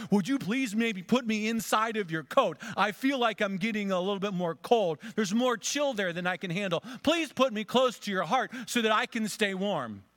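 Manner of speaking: high, loud, pleading serpent voice; the snake begging to be held closer; wheedling snake. A narrator's reading. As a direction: coax her like a sly snake. Snake asks to go inside coat.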